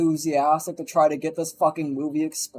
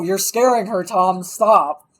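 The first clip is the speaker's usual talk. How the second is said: louder acted telling-off; mock scolding; 6 dB louder, slower than usual. Wife interrupts husband scaring the in-law, mock scolding. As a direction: cut in over him, scolding.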